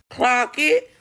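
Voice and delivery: high laughing "clock it"; giggling, sassy call-out to the viewers. Real, not acted. Laughing call-out after quote.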